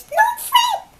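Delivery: very high, loud squeaky mouse voice. Retold or imitated. Mouse comforting the sleepless bear, squeaky high voice. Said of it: "the mouse says".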